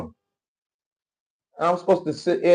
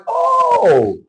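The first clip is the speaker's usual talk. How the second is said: mock relieved gushing; 2 semitones higher, slower than usual. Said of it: "It's like".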